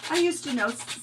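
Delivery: ordinary talk, nothing marked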